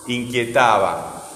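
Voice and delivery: "Inquietaba" said slowly, syllable by syllable; slow syllable stress. Shown as a demonstration. Teacher checking the accent with the pupil. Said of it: "¿Es una palabra con acento o sin acento?".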